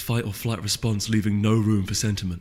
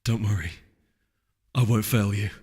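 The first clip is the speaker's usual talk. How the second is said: quiet resolve; 2 semitones lower than usual. A narrator's reading. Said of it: "brow stiffened in determination".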